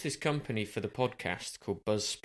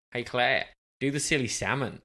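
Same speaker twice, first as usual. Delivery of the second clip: put-on Australian accent; 2 semitones higher, 4 dB louder than usual. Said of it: "you'll like this Australian accent".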